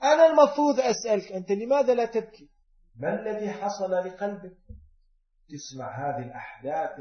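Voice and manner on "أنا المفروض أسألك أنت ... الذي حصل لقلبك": high, fast turned-around question; raised, rapid preached rebuke; indignant challenge. Real, not acted. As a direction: fire the question back. Preacher turns question on critic.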